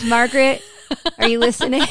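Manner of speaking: calling out. Real, not acted. Calling out to a listener.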